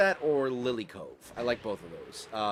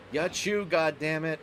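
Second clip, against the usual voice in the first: imitating sincere friend; 4 semitones higher, 4 dB louder, slower than usual. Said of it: "he sounded so sincere about it".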